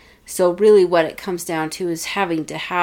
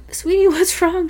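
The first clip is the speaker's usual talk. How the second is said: high, loud cooing retold concern; concerned mom; 12 semitones higher, 5 dB louder than usual. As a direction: coo it to an upset child. Retold mother comforting crying daughter.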